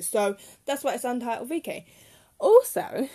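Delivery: breathless, short on air; out of breath. Real, not acted. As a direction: talk while winded. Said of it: "I'm really running out of breath".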